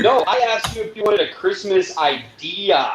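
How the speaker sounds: imitated seller patiently enunciating. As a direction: spell it out slowly, landing on "idea". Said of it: "speaking a little bit more where I can understand her".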